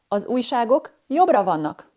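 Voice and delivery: "Az újságok jobbra vannak" with the pitch falling toward the end; descending statement intonation. Shown as a demonstration. Teacher giving an example of a declarative sentence, descending intonation. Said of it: "Declarative sentences have a primarily dissenting intonation".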